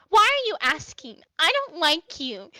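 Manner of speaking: high, loud suspicious challenge; defiant girl. Acted. Vivi to the stranger: a high, loud hostile challenge. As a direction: puff up and confront the stranger.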